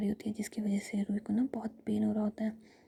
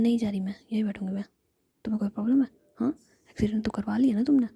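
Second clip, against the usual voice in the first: a hint of angry big sister, hushed and loud at the end; whispered scolding; 6 dB louder, faster than usual. Jiya snapping at injured Ruhi, whispered angry scolding. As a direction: scold her in a harsh whisper.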